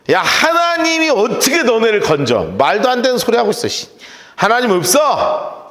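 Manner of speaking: 센 말투 흉내. Retold or imitated. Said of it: "세게 얘기합니다".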